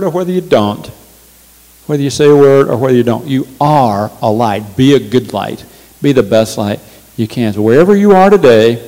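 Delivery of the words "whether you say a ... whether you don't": quick emphatic restatement; fast repeat. Shown as a demonstration. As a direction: rattle off the repeated line fast.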